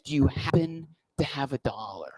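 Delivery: breathy secret whisper, no voice at all. Retold or imitated. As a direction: lean in and whisper the request. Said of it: "he goes".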